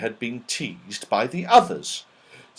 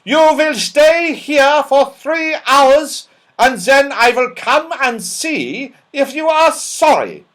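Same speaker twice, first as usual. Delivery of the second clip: cold snapped order; 14 semitones higher, 9 dB louder than usual. A narrator's reading. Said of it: "she snapped".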